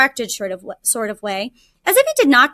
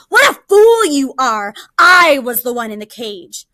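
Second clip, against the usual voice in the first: louder, scornful tiger scolding; impatient tiger; 5 dB louder than usual. Acted. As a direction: cut in and scold the fool. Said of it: "interrupted the tiger".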